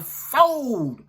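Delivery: mock auctioneer's drawn-out call; long, falling auction cry. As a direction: holler it like closing an auction. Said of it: "like they at an auction or something".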